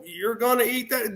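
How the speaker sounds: lightly voiced kid, amazed; kid asking. A boy asks the wrestlers about homemade food, lightly kid-voiced. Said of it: "I'm like a kid going".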